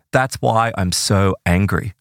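matter-of-fact. Retold or imitated. Four-year-old explaining himself to the therapist, matter-of-fact. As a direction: state it simply, as settled fact. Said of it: "very matter-of-factly, like a four-year-old would say".

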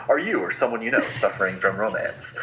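lightly voiced medical ad announcer; a hint of a drug commercial pitch; infomercial voice. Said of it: "I can hear the medical infomercial voice in my head".

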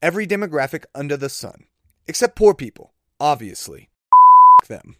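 put-on British accent drifting Australian; badly faked British, sliding into Australian; horrible British accent. Comedian roasting the Oscars crowd, horrible British accent. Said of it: "Oh, I'm getting Australian".

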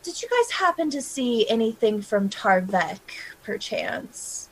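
unvoiced whisper to a dockhand. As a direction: whisper it secretively. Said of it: "and would say".

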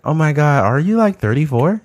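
high-pitched imitation of an amazed admirer; mock amazement. Admirer amazed by his age, high-pitched mock astonishment.

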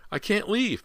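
very high, desperate refusal; shrieked. A narrator's reading. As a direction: shriek it as a frantic mother. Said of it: "Missus Fraser shrieked".

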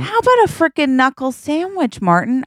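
hammed-up tough-guy taunt; mock outraged threat. Repeating partner's line, heightened.

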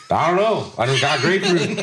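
high-pitched helpless excuse; baffled protest. Retold or imitated. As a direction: plead ignorance, amused in the retelling. Retold baffled answer to boss.

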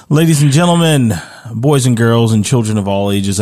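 booming circus ringmaster announcement. Pretend. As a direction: call it out like a big-top ringmaster. Host closes show like circus.

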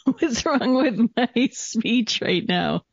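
slow, stiff robotic speech. Real, not acted. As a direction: talk like a halting robot. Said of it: "I sound like a robot".

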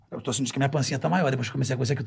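low, soft retold confession; lightly voiced admission, quiet and low; quiet confiding. Man retelling his post to followers about gaining weight, quiet confiding.

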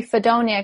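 "Fedonia" said as fuh-DOHN-ya; imitating a botched name, "Fedonia" as fuh-DOHN-ya; mispronounced name. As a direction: say "Fedonia" with stress on the long DOHN. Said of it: "'cause they couldn't say my name".

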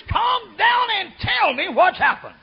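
high, loud, slow; loud calming command. Retold or imitated. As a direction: call over the noise to calm her. Preacher calming woman.

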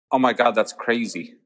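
second-try American accent; imitated American accent, falling at the end. Shown as a demonstration. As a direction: put on a casual American voice. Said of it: "Mm, try again".

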